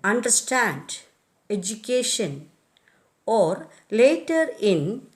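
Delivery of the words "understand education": understand and education stressed on the third syllable; under-STAND, edu-CA-tion. Shown as a demonstration. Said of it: "on the third syllable in".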